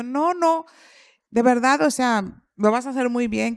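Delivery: high, loud, hurried reassurance; eager reassurance. Retold or imitated. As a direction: rush to calm the nervous partner. Reassuring partner in retold scene.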